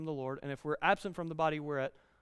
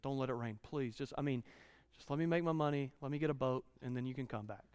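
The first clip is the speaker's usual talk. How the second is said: soft, whiny mock prayer; mock pleading prayer; 5 semitones lower, 9 dB quieter than usual. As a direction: beg God quietly like a selfish child. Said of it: "how many times do we go".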